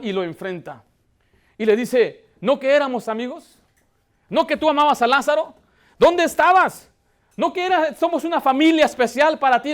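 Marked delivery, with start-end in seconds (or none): 2.4-9.7 raised, higher-pitched accusing questions; confrontational. Acted. Martha confronts the Lord for not being there, accusing and indignant. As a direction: confront him like a betrayed friend. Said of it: "lo enfrentó al Señor con una actitud, una mala actitud".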